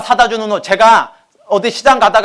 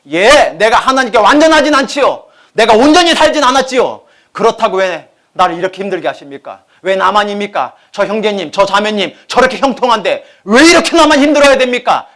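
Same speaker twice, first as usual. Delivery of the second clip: louder, higher protest at God; complaining believer; 3 semitones higher, 5 dB louder than usual. Retold or imitated. (하나님께 따지는 신자, 크게 항의)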